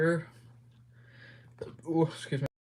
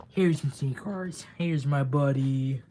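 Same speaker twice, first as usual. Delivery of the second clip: doting pet talk; 6 dB louder, slower than usual. Real, not acted. Showing off beloved cat.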